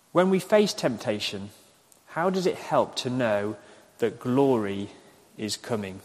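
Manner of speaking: unhurried, with pauses between phrases; slow dictation. Shown as a demonstration. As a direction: dictate the question for note-takers. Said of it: "I'll say them slowly".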